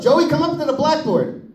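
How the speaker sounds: high, sing-song teacher call; a teacher summoning a pupil to the board. Retold or imitated. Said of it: "teacher calling him up".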